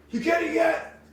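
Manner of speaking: squeaky high call from behind the door; high mock of the frightened guest; nervous man. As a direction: ask it like a man hiding, pitched high. Scared man calls through door.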